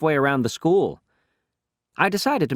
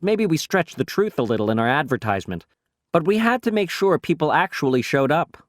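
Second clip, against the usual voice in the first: ordinary delivery, nothing marked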